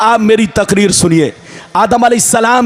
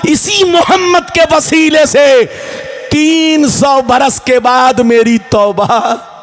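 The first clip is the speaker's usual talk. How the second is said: impassioned preaching; 3 semitones higher than usual. Acted. Preacher voices Adam pleading to Allah, fervent preaching. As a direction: throw each phrase out to the crowd as a plea. Preaches Adam's plea at full force.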